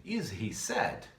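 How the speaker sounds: "Is he sad?" drawn out very slowly; slow model question. Shown as a demonstration. Teacher reading the workbook question very slowly to students. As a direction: stretch every word for learners. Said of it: "Ele tá triste?".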